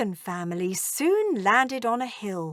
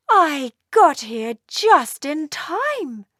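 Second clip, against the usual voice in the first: stern mother dragon; 6 semitones higher, 5 dB louder, slower than usual. Acted. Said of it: "she said".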